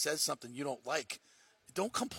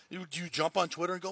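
usual speaking voice

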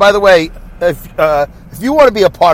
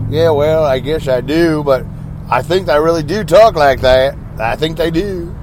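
lightly drawn-out Southern drawl; imitated Southern accent. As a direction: slip into a mild mock-Southern drawl. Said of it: "they talk like that".

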